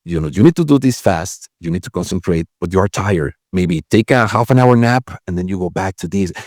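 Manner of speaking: a hint of a calm adviser; calm inner voice. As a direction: talk yourself down gently. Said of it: "the other voice, which is more like".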